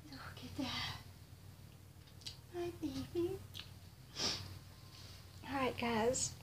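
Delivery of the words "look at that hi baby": tender hush. Real, not acted. Greeting the doll tenderly, very soft. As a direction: coo gently to a newborn.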